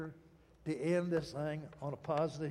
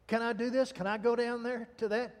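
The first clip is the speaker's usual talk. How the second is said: higher, eager mock teenage pleading; 4 semitones higher than usual. Preacher mimics his younger self begging to go out, higher. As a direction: lightly imitate a kid begging permission. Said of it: "And listen to me".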